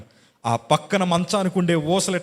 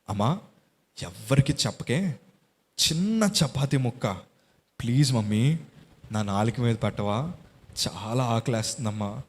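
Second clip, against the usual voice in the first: put-on softer, a feeble starving child's plea to his mother; weak crying plea; 2 semitones lower, 3 dB quieter than usual. Starving son begging his mother for food, softly tearful. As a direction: beg quietly with a mild tearful edge. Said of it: "అని ఏడుస్తూ మా తల్లి దగ్గర అంటూ ఉంటే".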